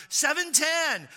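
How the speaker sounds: slow, high and loud reading of the cap; emphatic. Retold or imitated. Driver showing the attendant the cap, slow, high and loud. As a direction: stretch it out as if it is obvious.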